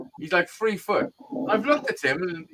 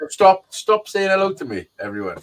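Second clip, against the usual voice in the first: mock exasperated plea; 3 semitones higher, 5 dB louder than usual. Mock outburst at chat.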